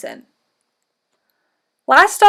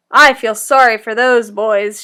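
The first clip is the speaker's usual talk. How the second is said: low grandmother voice; 3 semitones lower than usual. Acted. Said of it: "she told him".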